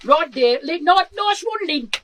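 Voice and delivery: hammed-up, slipping accent of a rock singer, often loud; boisterous mock rock-singer accent. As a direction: put on a rough comic take on the rocker's regional accent. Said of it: "I can't do the full accent here".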